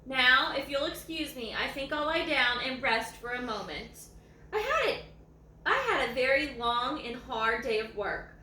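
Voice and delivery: lively read-aloud voice, savouring each line; story reading. A narrator's reading. Reading a dog's story to viewers, lively read-aloud.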